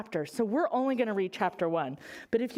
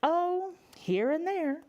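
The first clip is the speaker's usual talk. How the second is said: breezy chicken reply; 6 semitones higher, slower than usual. Acted. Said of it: "said Louise".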